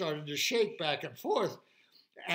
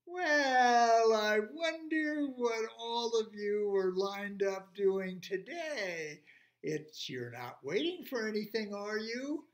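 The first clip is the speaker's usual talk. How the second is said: slow, drawn-out T-Rex voice; T-Rex, feigned curiosity; 4 semitones higher, 3 dB louder than usual. Acted. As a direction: stretch out the opening like a big dinosaur toying with them.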